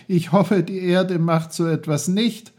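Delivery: put-on high, laughing boyish delivery; laugh, then say it high and lively; amused laugh. A narrator's reading. Peter laughs as the spinning top wobbles off the rock, amused. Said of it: "Er lachte".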